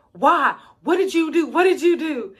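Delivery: lightly imitated high-pitched mom; alarmed mom. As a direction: demand it like a mock-worried mother. Mom reacts to dreaded confession.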